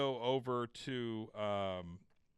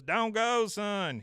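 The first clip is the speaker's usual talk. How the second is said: pleading call; 9 semitones higher, 6 dB louder, much slower than usual. Retold or imitated. Father pleading son to stay.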